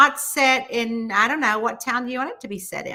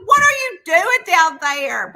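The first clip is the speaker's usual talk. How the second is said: startled question; 8 semitones higher, 7 dB louder than usual. Retold or imitated. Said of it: "I was like".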